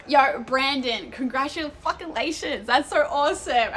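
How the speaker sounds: high, loud, drawn-out cheer for a friend; first excited take, loud and slow; excited congratulations. Real, not acted. First reading of congratulations in chat.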